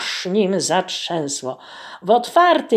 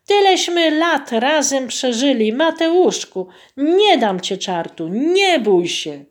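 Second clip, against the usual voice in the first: tearful wife; 6 semitones higher, 3 dB louder than usual. Acted. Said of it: "Rozpłakała się Kachna".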